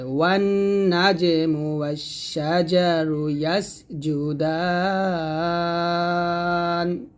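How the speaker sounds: slow, sustained chant with long held vowels; measured tajweed chanting; Quran recitation. Shown as a demonstration. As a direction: recite it slowly, drawing out each long vowel. Recites the verse for learners.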